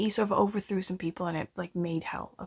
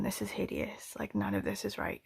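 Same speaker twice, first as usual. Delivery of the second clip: imagined critic; 7 dB quieter than usual. Retold or imitated. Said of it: "they're watching this going".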